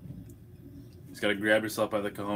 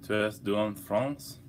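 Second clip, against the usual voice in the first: clumsy French; slower than usual. Shown as a demonstration. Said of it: "I can't speak French".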